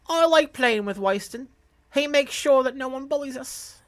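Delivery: put-on high-pitched little girl; child's voice. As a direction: voice a trusting small child.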